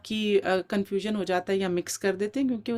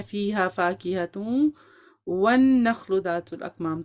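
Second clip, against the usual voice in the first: recited verse; 3 semitones lower than usual. Shown as a demonstration. Teacher reciting the correct verse eleven, measured. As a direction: recite it as a model.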